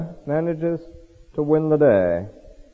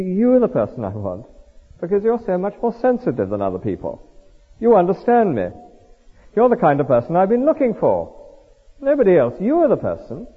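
"you" picked out, pitched higher as it builds; stress on YOU; 6 semitones higher than usual. Acted. Temptress telling the youth he is the one, flattering emphasis on "you". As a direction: flatter with a high, insistent "you". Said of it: "the emphasis on the word you".

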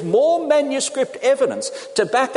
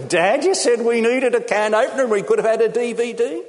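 put-on higher-pitched child's protest; indignant complaint; 4 semitones higher than usual. Children confronting Dad over the can opener, indignant. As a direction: complain in disbelief, like a let-down child.

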